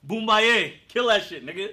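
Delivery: mock cheering at full volume; cheering him on. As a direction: egg him on like a rowdy spectator. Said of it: "cheer him on".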